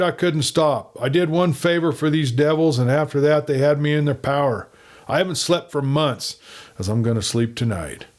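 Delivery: a hunted man finally unburdening himself; relieved nervous agent. Acted. Hardy confesses, relieved.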